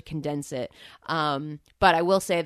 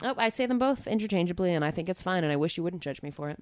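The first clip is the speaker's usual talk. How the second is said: tired and hungover. Real, not acted. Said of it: "a very different Amanda today".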